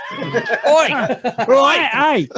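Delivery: put-on Cockney accent. Podcast host reading a listener email on request, in a hammed-up Cockney accent. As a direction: shout it out like a London barrow boy, Cockney all the way. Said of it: "Cockney, Cockney accent, if possible".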